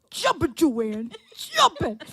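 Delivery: dad's line, breaking into laughter; laughing dad impression. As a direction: try to say it through giggles. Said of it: "And Dad's go".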